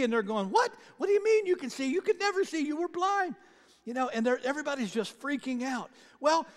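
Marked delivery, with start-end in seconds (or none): 0.5-3.4 high, stunned what-do-you-mean; disbelieving shock. Acted. Neighbours who knew him, stunned he can see, high disbelief.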